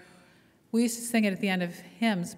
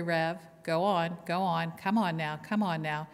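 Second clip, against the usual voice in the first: slow, lightly voiced call of encouragement; mild congregation encouragement; slower than usual. Church members urging the preacher on, lightly voiced. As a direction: urge the preacher on, understated. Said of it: "saying things like".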